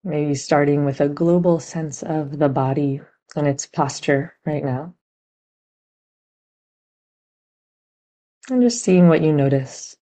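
gentle, unhurried meditation guidance with long pauses; guided meditation. Real, not acted. Teacher guiding meditators to sense body and heart, measured meditation voice. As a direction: guide listeners inward, leaving room between phrases.

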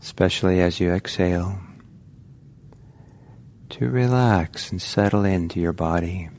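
calm, unhurried meditation guiding with long pauses; guided meditation. Real, not acted. Teacher guiding meditators to relax into the body, calm guided meditation. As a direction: ease listeners gently into relaxing, leaving space between phrases.

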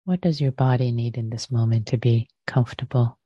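unhurried meditation guidance with long pauses; guided meditation. Real, not acted. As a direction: gently guide listeners to settle, phrase by phrase.

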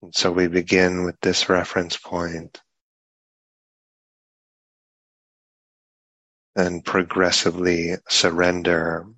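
unhurried meditation guidance with long pauses between phrases; guided meditation. Real, not acted. Teacher guiding a group sitting in meditation, unhurried guided meditation. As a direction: speak in measured phrases, leaving long silences.

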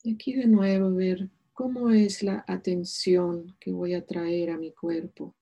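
calm meditation voice with long pauses; unhurried, soothing meditation leader; guided meditation. Acted. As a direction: guide them gently into stillness, leaving space between phrases.

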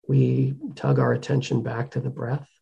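calm, measured delivery with long pauses; guided meditation. Real, not acted. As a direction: gently guide them to the breath, unhurried.

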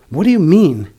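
stern, loud and high demand; stern caterpillar. A narrator's reading. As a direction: ask it sternly. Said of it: "said the caterpillar sternly".

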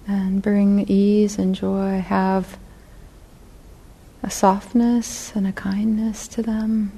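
unhurried guided reflection, long pauses between phrases; guided meditation. Real, not acted. Teacher guiding meditators to feel their intention to sit, guided meditation. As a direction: lead them gently inward, leaving space after each phrase.

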